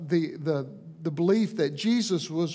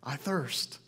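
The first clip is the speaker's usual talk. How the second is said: softer, lower, simple admission; quiet repeat; 4 semitones lower, 7 dB quieter than usual. Shown as a demonstration. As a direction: let it fall quietly, just human. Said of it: "is a very human thing to say".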